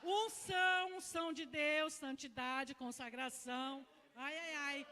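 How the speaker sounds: loud, fervent cry of praise; a sudden loud wave of religious fervor; fervent outcry. Real, not acted. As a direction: burst out in worship at the anointing. Fervent exclamation of God's anointing.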